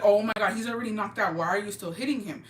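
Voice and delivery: mock retold scream. To the man kicking the knocked-out guy, a mild retold yell. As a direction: half-shout the shock at the kicking. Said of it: "I start screaming".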